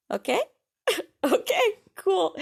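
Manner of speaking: high, loud mock-cheerful okay, cool; fake-bright sarcasm after the disaster; sarcastic okay. Real, not acted. Sarcastic reaction to lost file.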